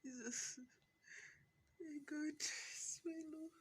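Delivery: high, strained cry through the pain. Real, not acted. Woman in labour crying out to God mid-contraction. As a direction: let the contraction pull the words up high.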